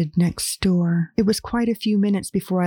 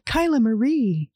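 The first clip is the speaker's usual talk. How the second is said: calling out; 5 semitones higher than usual. Acted. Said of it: "I yelled".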